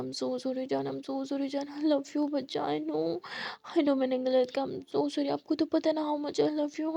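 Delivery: apologising while hugging her; tender apology. Acted. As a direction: hold her and murmur. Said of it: "और कहते हैं".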